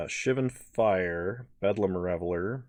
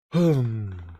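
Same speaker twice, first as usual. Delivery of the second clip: sleepy yawning sigh; 2 semitones higher, 3 dB louder than usual. Real, not acted. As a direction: let out a tired yawn. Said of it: "sorry for the frequent yawning".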